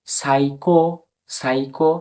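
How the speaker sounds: সাইকো begun on S, no P sound; silent P. Shown as a demonstration. Teacher shows learners the word, সাইকো with silent P. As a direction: say সাইকো as "sai-ko", P left silent. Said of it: "silence পুরোপুরিভাবে".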